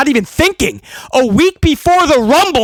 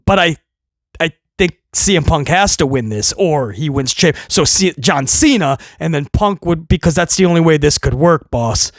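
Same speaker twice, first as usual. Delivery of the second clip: timid underling; 9 semitones lower than usual. Retold or imitated. Writer cautiously objecting to the boss, low and hesitant. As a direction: stammer carefully in a low voice.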